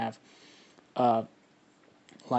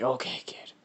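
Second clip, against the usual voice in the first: soft, partly whispered monster voice; lightly voiced creature; 6 dB quieter than usual. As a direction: quietly lay it out for the kid. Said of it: "he pops up and he says".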